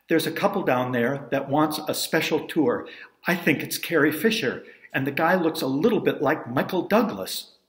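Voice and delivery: loud, urgent relay of news, a touch breathless; excited and breathless. Retold or imitated. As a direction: burst in with news you can't hold in. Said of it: "excited and a little breathless".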